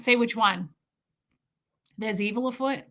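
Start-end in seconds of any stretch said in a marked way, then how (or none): 2.0-2.8 lightly done New York accent. Shown as a demonstration. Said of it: "say it in a New York accent".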